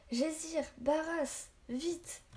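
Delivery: high, pressing yell of names; urgent shout. Acted. Boy urges the warriors to mount, urgent shout. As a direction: hurry them onto the horse. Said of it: "hurla Naquet".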